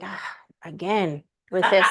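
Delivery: a hint of a sighing, bored universe, slow; weary universe. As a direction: lightly voice the universe rolling its eyes. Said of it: "I visualize the universe being".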